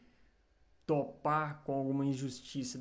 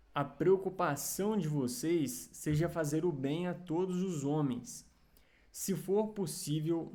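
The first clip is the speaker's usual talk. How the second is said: scripture reading. Acted. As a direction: read each verse out deliberately, with pauses. Reads Bible verses aloud.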